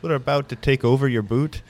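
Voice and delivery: a hammed-up, bad French Canadian pirate accent; mock French Canadian accent, first take; terrible French Canadian accent. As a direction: fake a clumsy French Canadian accent for a laugh. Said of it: "that's a terrible French Canadian accent".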